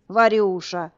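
loud, glad cry of her name; exclaiming. Acted. Grandfatherly uncle greets the girl with a loud, glad cry. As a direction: call out her name with joy. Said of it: "воскликнул дед".

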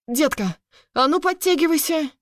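sharp high bark, demanding; barked order. A narrator's reading. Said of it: "рявкнул он". (рявкнул приказ)

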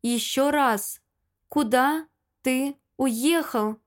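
slow, each word squeezed out; through teeth. Acted. To Lyosha, demanding an answer, each word strained out slowly. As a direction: grind out every word of куда ты уехал. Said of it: "Цежу каждое слово".

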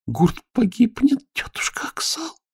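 high, slow whisper falling to breath; frightened whisper. Acted. Elo whispering her fear to aunt Aksal. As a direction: breathe out the dread. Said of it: "прошептала Ело".

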